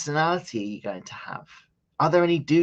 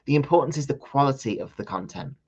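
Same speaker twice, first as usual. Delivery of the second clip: talking through hiccups; hiccuping between words. Real, not acted. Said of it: "I've given myself the hiccups".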